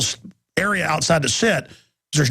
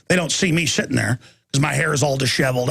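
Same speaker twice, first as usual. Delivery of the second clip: ordinary talk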